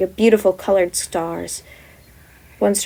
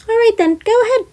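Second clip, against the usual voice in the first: high, loud, resigned; resigned go-ahead; 13 semitones higher, 5 dB louder than usual. Acted. Wizard letting the eager boy ask, high and resigned. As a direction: give in with a shrug.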